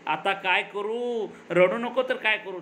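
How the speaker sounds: mock wail with long drawn-out words; hammed-up bawling, not too loud. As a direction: lament helplessly, stretching the endings. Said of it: "मोठा गळा काढून म्हणते".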